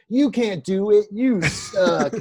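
lightly voiced bully insult; mock taunting bully.

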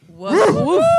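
high yappy puppy woofs; puppy bark. Pretend. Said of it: "Everybody bark on the count".

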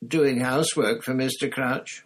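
high, squeaky indignant elf voice; tipsy elf squeaking in protest. Acted. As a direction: squeak it out, offended house elf. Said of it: "Winky squeaked indignantly".

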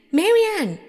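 high, loud summons; insistent calling out. A narrator's reading. Rabbit calls maid a second time.

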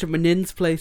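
mimicking a slightly British accent; a bit British. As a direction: echo it with a hint of British. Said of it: "you went a bit British".

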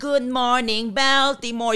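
like a cheery film hero waking up; movie wake-up greeting. Retold or imitated. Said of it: "in movies, like".

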